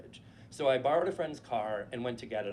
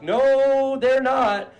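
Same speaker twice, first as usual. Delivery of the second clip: loud, high, flat denial; high-pitched shouted no; insistent shout; 10 semitones higher, 12 dB louder, slower than usual. Retold or imitated. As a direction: yell it, frantic and certain. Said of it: "And I was like".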